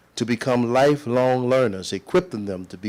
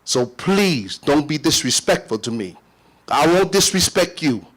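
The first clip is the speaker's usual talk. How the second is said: indignant; 2 semitones higher than usual. Real, not acted. Arguing back at chair.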